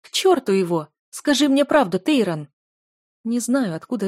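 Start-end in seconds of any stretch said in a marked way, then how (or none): 0.0-2.5 shouting, much higher and louder. Acted. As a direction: demand the truth at full voice. Heroine shouting at him.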